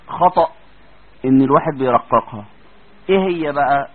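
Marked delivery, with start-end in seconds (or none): none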